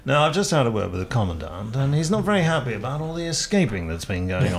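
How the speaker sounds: lightly voiced jolly British officer; prisoner-of-war officer. Officer reporting the Commandant's mood to fellow prisoners, lightly acted. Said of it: "I wanna be that character who says".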